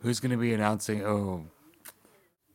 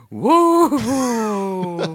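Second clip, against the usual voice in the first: excited cheer; 11 dB louder than usual. Real, not acted. Cheering at the Oscars.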